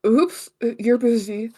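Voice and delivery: nervous nerdy hero backing off; flustered anime hero; anime protagonist voice. Acted. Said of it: "my anime protagonist voice".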